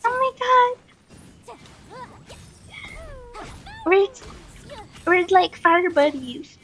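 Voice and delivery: ordinary delivery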